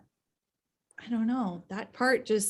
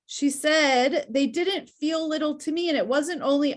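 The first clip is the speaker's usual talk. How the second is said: higher voice, choked up by the story; close to tears; 5 semitones higher than usual. Real, not acted. Reader moved by the sister's answer to her brother, tearful. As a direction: read it on the verge of crying. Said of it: "I'm gonna cry 'cause this part is so sad".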